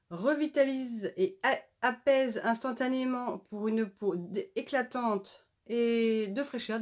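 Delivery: stumbling over syllables with restarts; stammering. Real, not acted. Vlogger reading out product claims to viewers, stammering. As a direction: trip on word beginnings while reading aloud. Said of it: "Désolée, je bégaye là".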